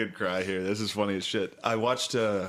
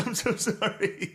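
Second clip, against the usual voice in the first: high, slow whimpering squeak; mock tearful apology; 11 semitones higher, slower than usual. A son apologizing to his mom, mock tearful. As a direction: imitate a crying kid saying sorry. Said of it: "crying as a kid".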